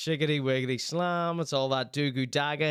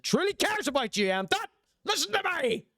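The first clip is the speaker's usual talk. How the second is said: high mock voice; 13 semitones higher than usual. Mock high voice, joking aside.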